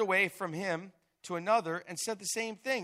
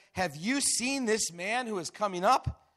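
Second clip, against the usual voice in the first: frightened soldiers; 7 semitones higher, 8 dB louder than usual. Acted. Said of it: "The men of Israel said".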